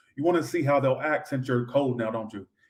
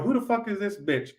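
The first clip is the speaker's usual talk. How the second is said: higher, indignant movie quote; jealous girlfriend quote; 6 semitones higher, 3 dB quieter than usual. Retold or imitated. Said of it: "What I got".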